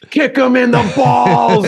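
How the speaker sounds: high, drawn-out heckler's yell; mock screaming. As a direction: yell it like a rowdy fan in the stands. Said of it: "people behind the Queen are screaming".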